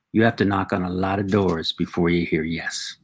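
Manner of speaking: put-on dad's lesson in a light Mexican accent. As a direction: pass on advice in a Mexican accent. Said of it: "give him an accent".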